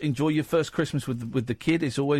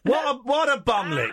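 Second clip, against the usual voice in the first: laughing; 8 semitones higher than usual. Shown as a demonstration. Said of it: "Keep going".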